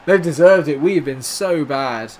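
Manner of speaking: loud, fed-up rant at own team; frustrated outburst. Real, not acted. Scolding his own side after conceding, loud and fed up. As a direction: vent at the team's terrible play.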